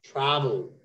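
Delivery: "Travel" falling away after a firm TRA; stress on first syllable. Shown as a demonstration. Teacher asking where the stress is, first syllable stressed. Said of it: "Where is the stress?".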